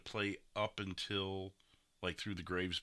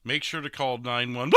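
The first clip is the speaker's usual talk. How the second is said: mock news shout; 4 semitones higher, 8 dB louder than usual. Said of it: "you're like".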